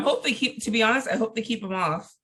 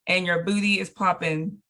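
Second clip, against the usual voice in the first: hyping up; slower than usual. Pretend. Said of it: "But girl".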